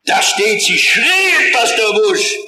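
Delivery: high, loud, triumphant retort; old brother correcting. Retold or imitated. Old blacksmith brother corrects young pastor Busch, loud and high. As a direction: jab the Bible at the young pastor. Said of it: "mit der Bibel ankommen, sagen".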